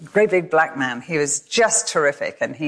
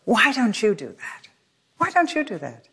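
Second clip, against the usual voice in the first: gentle voice of God; 5 semitones higher than usual. Retold or imitated. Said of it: "it was God's voice".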